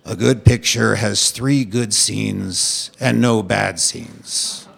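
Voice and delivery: slow, low director impression; hammed-up old Hollywood voice; Bogdanovich doing Howard Hawks. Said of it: "He'd say".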